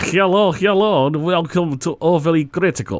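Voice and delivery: bad, cheesy, fake Russian accent. Imitating a co-host's show introduction in an offensive fake Russian accent. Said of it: "the most offensive Russian accent you've probably".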